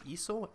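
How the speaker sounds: "Easel" with a long ee, as a rising question; trying a pronunciation. Shown as a demonstration. Player unsure of the word, "Easel" said ee-zul, questioning. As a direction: ask "Easel" high, starting on ee. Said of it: "Is that how you say it?".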